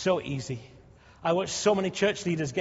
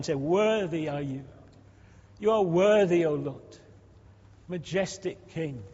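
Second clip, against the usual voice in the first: fervent praying aloud to God, building louder; prayer; 4 dB louder than usual. Acted. Pastor leading the church in prayer, fervent and rising. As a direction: pray out over the church with rising fervour.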